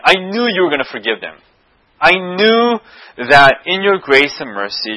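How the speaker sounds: retold angry complaint to God, emphatic and insistent; mildly indignant, leaning hard on each accusation; angry Jonah. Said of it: "He's angry at God because he says this".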